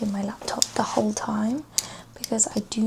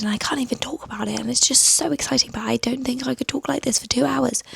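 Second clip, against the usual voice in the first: louder, gushing excitement demo; super excited; 2 semitones higher, 8 dB louder than usual. Shown as a demonstration. Vlogger testing a super excited voice, loud and gushing. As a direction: burst out like you can't contain it. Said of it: "Or I could do super excited".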